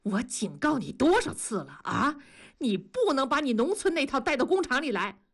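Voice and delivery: stern reprimand. Acted. Master reprimanding worker for hitting his wife, indignant. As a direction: scold him, speeding up toward the final question.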